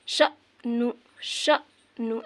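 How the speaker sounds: श नू with a catch between the syllables, very slow; श नू slowly, a jerk at the hamza; slight jerk. Shown as a demonstration. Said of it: "ऐसे झटका लेकर". (श नू झटका लेकर, बहुत धीरे)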